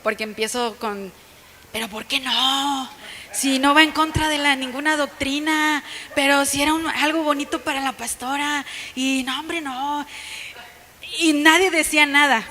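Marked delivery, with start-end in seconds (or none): 1.7-10.1 whiny protest. Retold or imitated. Woman objecting to the pastor being refused permission, whiny protest. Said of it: "y bien mal yo, porque empiezo con".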